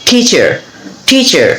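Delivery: "টিচার" opened with a puffed t; aspirated T. Shown as a demonstration. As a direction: model "টিচার" with air after the first t. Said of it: "এখানে উচ্চারণ হবে ঠ". ("টিচার" ঠ দিয়ে উচ্চারণ)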